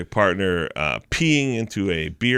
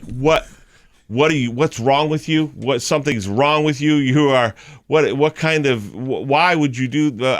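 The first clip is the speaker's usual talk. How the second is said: flustered outrage; 5 semitones higher than usual. Retold or imitated. Retold outraged teacher confronting him.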